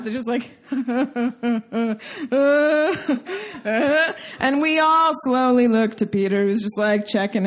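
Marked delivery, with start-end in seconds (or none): 0.7-4.3 drawn-out mock laugh; imitated low laugh. Imitating whoever broke the family's silence, low laugh. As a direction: laugh that breaks a long silence. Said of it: "low laugh".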